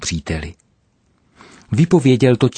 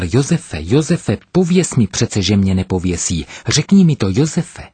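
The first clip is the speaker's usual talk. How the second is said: desperate cry. Acted. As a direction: beg your friend to promise you won't hang. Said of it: "Zoufale zvolal".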